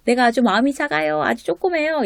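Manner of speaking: small, high-pitched self-belittling voice; mock confession. Petty person announcing how small their heart is, mock confession.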